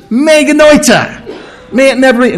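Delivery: excited, high-pitched exclamation; Paul. Acted. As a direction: cry it out as an impassioned rejection. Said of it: "it's Paul's excitement here. He says".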